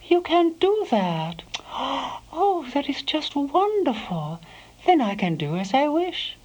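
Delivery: thrilled cry with a gasp of relief; exclaiming with joy. Acted. Proust exclaims to Celeste in delight, high and excited. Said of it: "He exclaimed".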